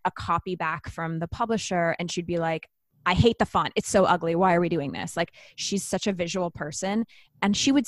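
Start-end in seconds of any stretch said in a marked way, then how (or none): 3.0-5.1 louder, mock-exasperated griping; retold irritated protest; exasperated complaint. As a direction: imitate a fed-up colleague objecting. Retelling co-author's complaints about font.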